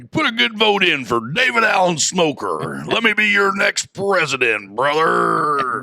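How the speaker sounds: hammed-up stump speech sign-off; mock campaign pitch. Mock candidate begging listeners for votes, hammed-up and high.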